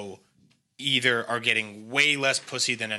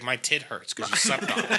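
put-on laughing girlfriend quote; 4 dB quieter than usual. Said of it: "she's like".

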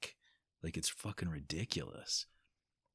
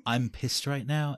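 louder, higher, slow angry declaration; imitating own anger; 8 semitones higher, 9 dB louder, slower than usual. Man quoting his angry inner voice, higher, louder and slow. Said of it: "I've also found myself saying".

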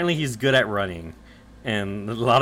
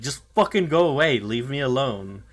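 frustrated snap; 2 semitones higher, 4 dB louder than usual. Retold or imitated. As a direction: push them away in irritation. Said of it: "extremely frustrated by the situation".

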